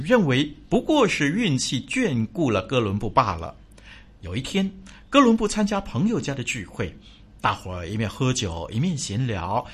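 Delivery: storyteller reading; story narration. A narrator's reading. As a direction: tell the fable gently.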